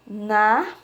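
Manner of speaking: "Narreta" read as na... rre... ta, with pauses; each beat of "Narreta" held alone; syllable by syllable. Shown as a demonstration. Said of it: "dentro desses quadros tem sílabas".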